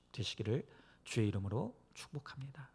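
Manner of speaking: normal talking voice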